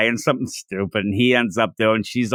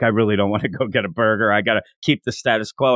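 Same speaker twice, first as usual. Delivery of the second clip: inner-thought aside; 5 semitones lower, faster than usual. Acted. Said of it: "the little asides through it".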